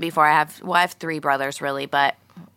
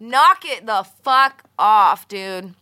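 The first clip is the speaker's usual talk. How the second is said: mock scolding; 3 semitones higher, 5 dB louder, much slower than usual.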